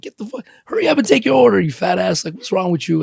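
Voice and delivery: high, fast, mocking insults to a customer; rude server. Server trash-talking a diner, high and fast mock rudeness. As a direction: snap at the customer like a rude waiter.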